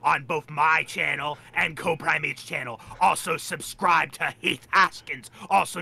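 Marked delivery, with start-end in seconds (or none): 0.0-2.8 hyped call out. Shown as a demonstration. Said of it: "You're supposed to say it like this".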